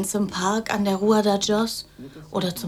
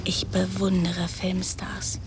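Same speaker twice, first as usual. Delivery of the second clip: leise geflüstert; 5 dB quieter, slower than usual. Acted. Macabéa gesteht ihre Bewunderung.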